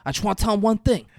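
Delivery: mock pleading. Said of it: "He's like".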